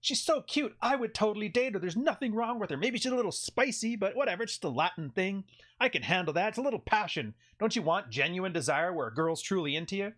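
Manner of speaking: a lightly voiced gullible admirer; mock smitten viewer. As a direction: play the naive guy falling for her. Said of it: "It's like".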